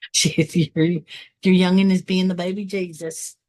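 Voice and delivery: put-on rural churchgoer accent; lightly exaggerated country drawl accent; country "baby Jesus" accent. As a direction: echo it in a folksy country accent. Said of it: "I don't know why people get that accent".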